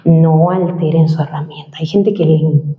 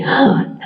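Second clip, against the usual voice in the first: noisy open-mouthed inhale; gasp through mouth; 2 semitones higher than usual. Shown as a demonstration. Coach showing how people wrongly inhale, mouth gasp. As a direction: demonstrate gulping air in through the mouth. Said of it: "hay gente que".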